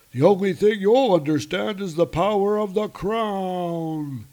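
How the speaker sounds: high, loud booming villain; dark lord. Acted. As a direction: gloat over the realms. Giant threatens Thor.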